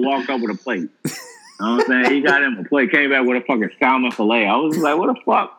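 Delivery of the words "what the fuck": retold shock.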